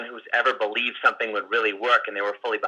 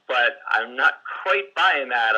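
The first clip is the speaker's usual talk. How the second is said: slow skeptical line; much slower than usual. Shown as a demonstration. Coach shows a slow doubting reply to a client. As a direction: draw it out slowly, doubting. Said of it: "say, just say".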